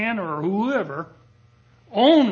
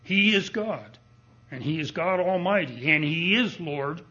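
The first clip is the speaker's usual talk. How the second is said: preaching with fervor; 2 semitones higher than usual. Real, not acted. Preacher proclaiming Lord of Lords.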